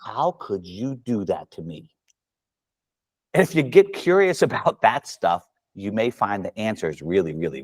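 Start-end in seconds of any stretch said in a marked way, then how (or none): 0.0-1.9 mock wounded. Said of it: "you look at your golf club and you go".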